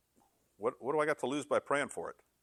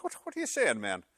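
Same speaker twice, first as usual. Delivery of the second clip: Irish brogue. Acted. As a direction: joke Irishman's brogue, taken aback. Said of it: "I gotta say this in a brogue".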